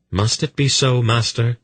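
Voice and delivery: reluctant question. A narrator's reading. Polgara questions her master Aldur, reluctantly. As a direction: ask it unwillingly, hoping for another answer. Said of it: "in a voice that clearly revealed her reluctance".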